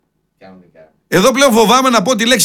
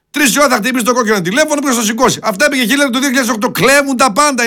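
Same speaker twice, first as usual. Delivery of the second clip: usual speaking voice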